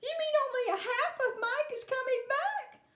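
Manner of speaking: high-pitched, incredulous parent; alarmed question. A narrator's reading. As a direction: ask it in rising disbelief.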